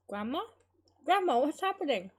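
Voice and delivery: rising alarm, high and loud; from a questioning call to a panicked cry. Acted. Girl to her collapsed grandmother, panicked. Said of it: "Crazed with panic".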